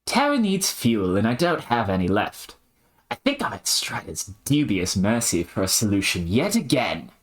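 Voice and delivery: shaky try at an Aussie character; put-on Strayan voice; attempted Australian accent. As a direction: play it Australian, not quite landing it. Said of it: "doing a bad job between these two".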